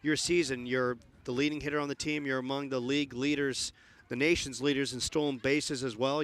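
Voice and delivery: upbeat postgame interview voice; bright broadcast sideline read; sideline reporter. Acted.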